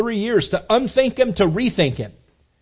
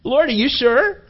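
higher, hesitant, disbelieving; incredulous stammer; 7 semitones higher than usual. Retold or imitated. Ananias questioning the Lord about Saul, higher incredulous stammer. Ananias doubting the Lord's command.

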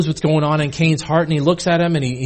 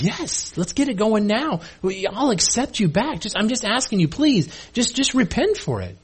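higher-pitched, soft coaxing; gentle pleading; 4 semitones higher, 3 dB quieter than usual. Retold or imitated. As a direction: coax them earnestly, voice lifted. God urging the sinner back.

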